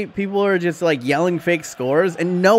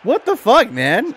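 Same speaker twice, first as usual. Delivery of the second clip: exasperated shout; 4 semitones higher than usual. Real, not acted. Defender got beaten.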